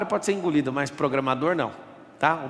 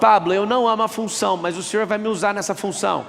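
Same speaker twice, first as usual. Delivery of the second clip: higher, louder imitated listener; mock objection; 4 semitones higher, 4 dB louder than usual. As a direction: play the protesting follower. (imitando o ouvinte que reclama)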